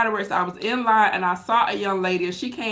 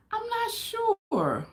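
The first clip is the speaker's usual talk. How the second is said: mock doubtful; 14 semitones higher, 6 dB quieter, much slower than usual. Real, not acted. Doubtful reply to viewer question.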